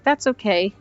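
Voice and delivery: mock-sweet little sister; lightly voiced little sister. Little sister voiced in retold scene.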